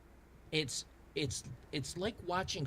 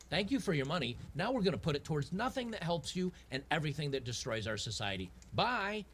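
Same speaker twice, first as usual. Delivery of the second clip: mock government voice; 5 semitones higher than usual. Government thanking taxpayers for their money, in a sarcastic cheery mock voice. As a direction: thank the taxpayer with fake gratitude, then wave them off.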